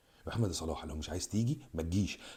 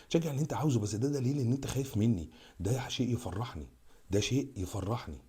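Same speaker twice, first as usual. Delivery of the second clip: defiant taunt; 4 semitones higher than usual. Real, not acted. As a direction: fling it back at them. Taunting Moroccan fans.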